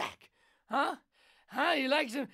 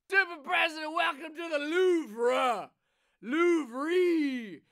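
hammy announcer; 3 semitones higher, 4 dB louder, slower than usual. Acted. Hammed-up tour guide.

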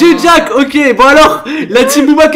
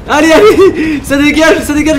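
laughing through the words, louder and higher; 4 semitones higher, 4 dB louder, slower than usual. Real, not acted. Gamer laughing in a chaotic fight, loud laughing cheer. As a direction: cheer them away while cracking up.

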